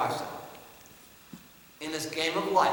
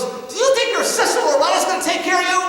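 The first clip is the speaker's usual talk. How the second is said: much higher and louder, a sharp demanding question; dad's pointed challenge; 12 semitones higher, 10 dB louder than usual. Retold or imitated. Father challenging his son, loud demanding question. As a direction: corner him with the question.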